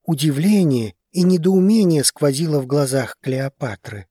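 ordinary delivery

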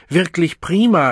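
high, loud, nervously cheerful; nervous placating smile. Acted. Nervous man placates the Savage with a forced smile. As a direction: smile your way out of danger. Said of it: "mit einem nervösen, versöhnlichen Lächeln".

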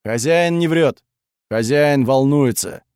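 lightly voiced, drawn-out creature speech; simple loyal creature. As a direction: answer plainly, stretching the words a little. Mozart, her creature companion, answers.

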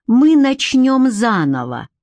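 measured, coldly mocking command; icy sneer. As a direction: draw it out with cold mockery. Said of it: "Губы викинга скривились в ледяной усмешке".

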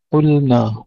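قلنا with the lam kept separate from the nun; clear unmerged lam. Shown as a demonstration. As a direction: sound a distinct L before the N in قلنا. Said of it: "نفصل اللام عن النون".

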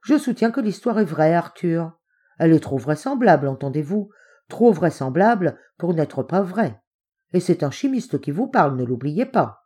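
insistent, lightly punched key words; emphatic insistence. A narrator's reading. Uncle insisting the story is true, emphatic. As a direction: press the point, stressing each claim. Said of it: "scanda-t-il tout à coup".

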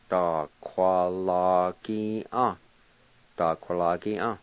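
"Da, qua, la, ki, ah" said slowly, syllable by syllable; syllable demo. Shown as a demonstration. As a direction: spell out "Da, qua, la, ki, ah" to learners. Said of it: "pronunciation demo".

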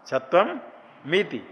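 छत्वम rising, then मीति, as two pieces; split into parts. Shown as a demonstration. Teacher breaks the word into parts to show. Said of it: "मीति नहीं".

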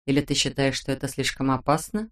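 soft, low hushed question; whispered. A narrator's reading. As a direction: drop to a near-whisper. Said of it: "прошептала она".

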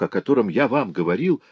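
usual speaking voice

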